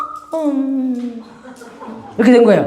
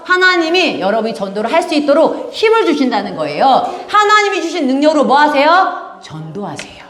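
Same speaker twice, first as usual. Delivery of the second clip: ordinary talk, nothing marked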